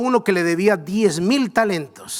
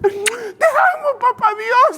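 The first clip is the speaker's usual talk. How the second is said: joyful shouting; 10 semitones higher than usual. Retold or imitated. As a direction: shout it like a man set free. Siervo perdonado salta de alegría. (gritos de alegría, muy agudos)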